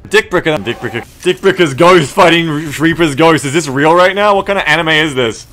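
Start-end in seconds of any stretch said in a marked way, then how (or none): 1.2-5.5 louder, rising disbelief; watching ghosts clash, hyped up; excited. Real, not acted. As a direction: get louder as the fight unfolds. Excited at the game fight.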